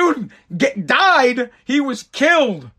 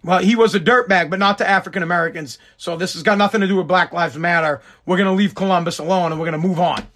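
lower, casual imitation of a protester shrugging it off; mock reasonable protester; 4 semitones lower, faster than usual. Comedian voicing a calm protester who decides to leave Columbus alone, lower and relaxed. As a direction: play a calm protester talking himself out of it, a bit low. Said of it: "Be like".

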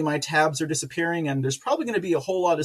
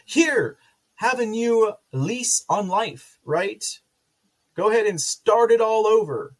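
higher, sarcastic offer; mock generous handout; 6 semitones higher, 4 dB louder than usual. Mocking the government handing migrants cash. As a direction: hand it over with mocking cheer. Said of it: "mock handout to migrants".

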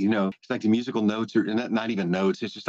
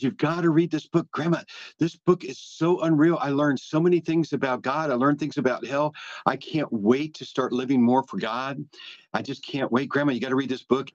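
put-on higher, eager little-girl voice; a grandmother mimicking her granddaughter's excitement; excited granddaughter; 4 semitones higher than usual. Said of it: "She says".

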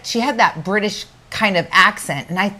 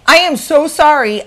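mortified apology; 7 semitones higher, 6 dB louder than usual. Retold or imitated. Retells mortified apology after blunder.

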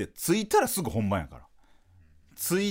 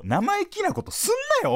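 much higher, mock senior yelling at the juniors; hammed-up senpai telling off the newbies; bossy senpai. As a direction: play a cocky upperclassman scolding first-years. Senpai line quoted in rehearsal.

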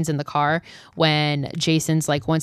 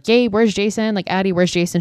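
mild mock panic; 3 semitones higher than usual. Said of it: "She starts freaking out".

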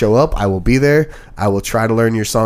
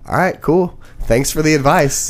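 higher-pitched mock politeness; dismissive thanks; 5 semitones higher than usual. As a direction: brush off advice with put-on pleasantness. Acted dismissive reply to unwanted advice.

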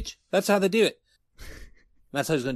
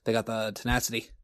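lower, softer ominous warning; mock warning; 4 semitones lower, 6 dB quieter than usual. Host warning about kangaroos in a mock ominous hush. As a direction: lean in low like a spooky tale.

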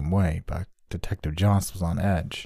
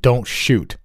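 loud high urgent yell; 5 semitones higher, 6 dB louder than usual. A narrator's reading. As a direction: shout it to stop her. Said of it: "I yelled".

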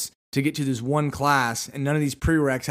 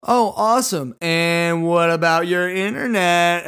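high, loud and slow drawn-out question; perky saleswoman; 4 semitones higher, 5 dB louder, slower than usual. Retold or imitated. Saleswoman pressing a shopper about his internet, high and drawn out. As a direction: stretch the question sweetly. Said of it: "And she goes".

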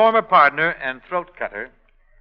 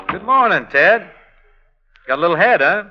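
teasing; 3 semitones higher, 5 dB louder than usual. Acted. Teasing hungover partner.

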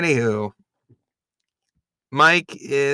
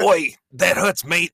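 higher, laughing mock British accent; 7 semitones higher, 3 dB louder than usual. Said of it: "It's my Mike impression".

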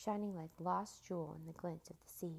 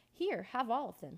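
urgent offer; 5 semitones higher, 6 dB louder than usual. A narrator's reading. Boy hastily offers all cookies.

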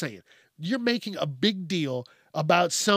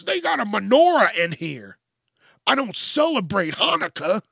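mock offended patron; 4 semitones higher, 4 dB louder than usual. Mocks a complaining library visitor.

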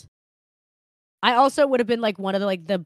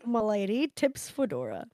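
nasal smug neckbeard; 5 dB quieter than usual. Pretend. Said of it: "You gotta do it in your voice".

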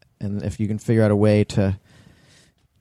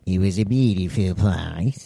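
New Zealand accent; 3 semitones lower, slower than usual. Shown as a demonstration. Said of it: "That was my New Zealand accent".

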